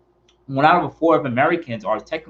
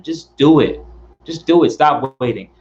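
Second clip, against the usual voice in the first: firm push; 4 dB louder than usual. Acted. Pep talk, repeated command.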